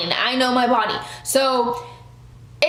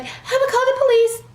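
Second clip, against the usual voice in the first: mock threat; 11 semitones higher, faster than usual. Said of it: "she was like".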